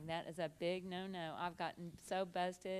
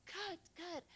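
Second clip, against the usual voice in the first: softer echoed cut; 10 semitones higher, 4 dB quieter than usual. Retold or imitated. Director echoing her actress's yell, lightly called. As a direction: call cut lightly, pitched up.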